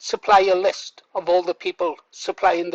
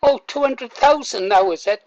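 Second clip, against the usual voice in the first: mock surprise; 5 semitones higher, 4 dB louder than usual. Real, not acted. Mocks the fundraising total.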